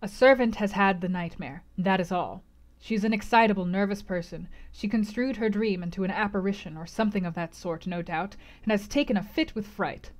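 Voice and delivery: controlled, matter-of-fact explanation; steady yourself and explain it away; forced calm. Acted. Host explains the scream to guests, deliberately calm. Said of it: "Calming himself by an effort".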